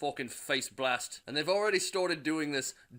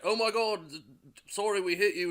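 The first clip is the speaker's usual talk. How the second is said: higher, flustered panicky voice; shocked apology; 4 semitones higher than usual. Acted. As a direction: gasp it out, horrified. Drivers panic after hitting him.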